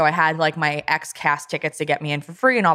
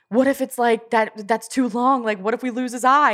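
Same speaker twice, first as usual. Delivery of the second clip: raised, anxious imitation of a panicking husband; worried husband; 7 semitones higher than usual. Wife imitating husband panicking about the dog, mock anxious. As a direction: mimic the fretful worry over the dog's eye. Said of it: "And Jared's like".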